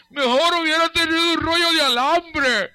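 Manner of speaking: high, drawn-out parental wail; loud, slow, high-pitched exasperation; exasperated parent's outburst. Acted. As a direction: cry it out like a fed-up parent. Voices exasperated parent's rant.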